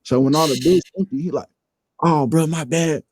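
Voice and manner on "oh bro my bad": mild mock begging for mercy; retold pleading. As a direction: plead lightly, imitating a beaten man. Retold begging for his life.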